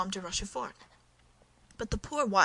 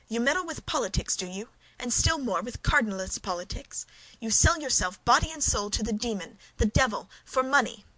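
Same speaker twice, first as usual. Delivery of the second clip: rising, louder scolding; conjugal anger; 3 semitones higher, 4 dB louder than usual. Acted. Wife scolding her husband for selling out, in rising anger. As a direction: build the scorn toward devil. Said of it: "conjugal anger".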